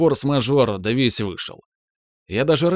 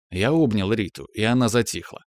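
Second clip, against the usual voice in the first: ordinary delivery, nothing marked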